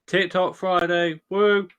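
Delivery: loud, slow hype announcer call; fighting game announcer. Acted. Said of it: "to woo".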